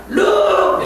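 high-pitched, long hailing call; calling far away. Shown as a demonstration. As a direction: hail someone in the distance. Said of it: "멀리 있는 사람은".

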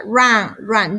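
"Run" as "rahn", untrilled R; English R drill. Shown as a demonstration. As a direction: curl the tongue back on "Run". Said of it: "Vamos haciendo ejercicio con la lengüita".

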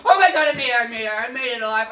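laughing with relief; relieved laughter. Real, not acted. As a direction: laugh out the escape. Escapes alive, laughing.

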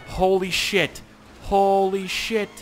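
from exclaim to drawn-out yell; building to a shout. Real, not acted. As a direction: alarm growing into a yell. Tricycle wobbling out of control.

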